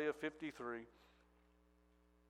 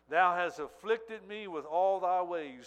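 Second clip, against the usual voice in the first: loud, slow, anguished scripture reading; preacher cries out the Psalm as Jesus, loud and aching; anguished cry; 2 semitones higher, 9 dB louder, slower than usual. Acted. Preacher voicing Jesus's cry to the Father, loud and slow.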